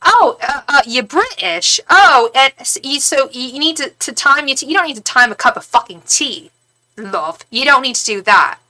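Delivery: mock Cockney. Hostile English woman scolds tea-timing guest, mock Cockney. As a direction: imitate a rough London woman scoffing. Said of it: "She had a really Cockney accent".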